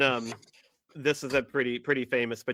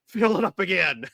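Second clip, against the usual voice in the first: raised, loud quoted demand; Will Ferrell; 6 semitones higher, 5 dB louder than usual. Retold or imitated. Repeating the bong line to co-hosts, raised eager call. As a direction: push it up higher and louder, as a refill call. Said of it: "when he said that".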